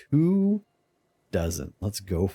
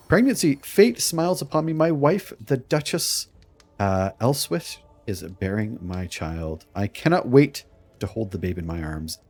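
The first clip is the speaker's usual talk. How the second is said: proud duke reading. Acted. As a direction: read it like a pleased nobleman. Reads pregnancy event as duke.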